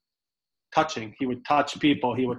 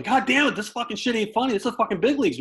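higher-pitched ranting scold; mock angry manager; 7 semitones higher than usual. Manager scolding his hitter, mock angry rant. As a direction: bark it like a fed-up manager. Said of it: "he goes".

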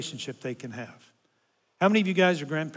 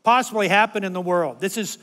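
loud exaggerated whining, pitched up; complaining; 4 semitones higher, 4 dB louder than usual. Grandpa griping at the concert, loud exaggerated whine. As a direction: ham up the misery of bad seats. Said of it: "I'm complaining".

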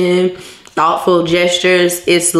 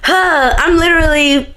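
emotional catch; 9 semitones higher than usual. Real, not acted. Overcome with gratitude.

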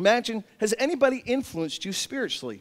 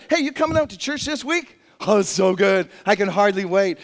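eager invitation; 3 dB louder than usual. Pretend. Playing eager church invitation.

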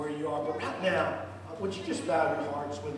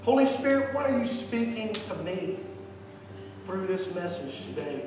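modelled prayer. Shown as a demonstration. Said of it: "just say it like that".

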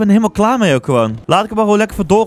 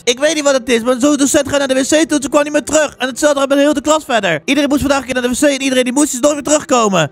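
higher-pitched youngster voice; puzzled pupil; 6 semitones higher than usual. Acted. Pupil tells about the vanished teacher, higher puzzled voice. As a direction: play a pupil in a raised, higher voice.

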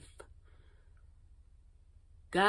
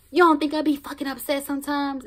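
incredulous; 8 semitones higher, 4 dB louder, faster than usual. Acted. Mock question to viewers, raised voice.

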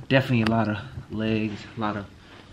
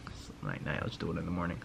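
lazy inner voice; 4 semitones lower, 9 dB quieter, faster than usual. Retold or imitated. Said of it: "but I'm like".

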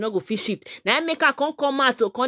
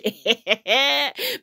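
rising laugh. Real, not acted. Laughs after the joke.

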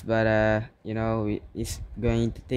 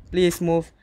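desperate pleading; 7 semitones higher than usual. Real, not acted. Begging game to respond.

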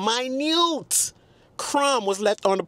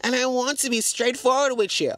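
sweet Southern Belle; 6 semitones higher than usual. Retold or imitated. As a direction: read the message like a polite Southern lady. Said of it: "Southern Belle said".

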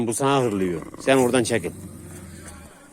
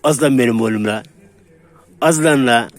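excited praise; 6 dB louder than usual. Real, not acted. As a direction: cheer the dogs on, delighted. Cheering both dogs on.

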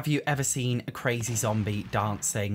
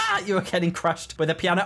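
higher, laughing gloat; gleeful taunt; 5 semitones higher, faster than usual. Real, not acted. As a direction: crow it at your victim.

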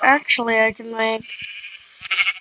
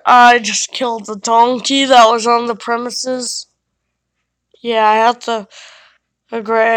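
loud, brisk pest-control man; exterminator character; 5 dB louder than usual. Pretend. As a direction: play the cocky exterminator, a bit louder. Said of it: "I'm the exterminator".

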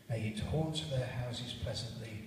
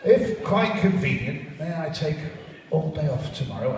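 timid clerk; 5 semitones higher, 9 dB louder than usual. Acted. Timid clerk asks Scrooge.

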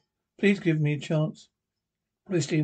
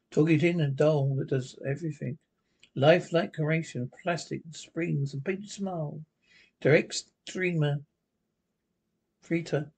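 story narration. A narrator's reading.

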